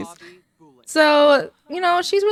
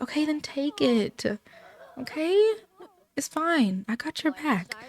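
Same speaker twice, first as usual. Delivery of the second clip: softly voiced encouragement, trailing quieter; gentle reassurance; 3 semitones higher, 6 dB quieter than usual. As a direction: reassure a hesitant friend softly. Friend reassures her about moving out.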